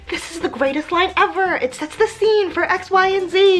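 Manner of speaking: high, pleased with your own line; smug, self-impressed writer voice; proud writer. Pretend. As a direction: oversell the sentence. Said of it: "you could be like".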